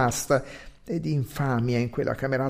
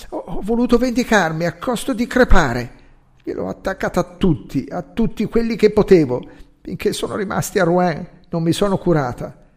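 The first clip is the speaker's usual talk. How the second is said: higher and louder, bitter triumph; vengeful outburst; 6 semitones higher, 4 dB louder than usual. A narrator's reading. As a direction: spit out the revenge, voice rising. Vengeful confession of dying woman.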